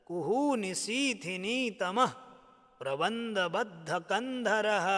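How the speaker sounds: measured, rhythmic Sanskrit recitation; steady devotional chant-like reading; stotra recitation. Shown as a demonstration. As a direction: recite the verse line by line for students. Teacher recites Sanskrit stotra verse.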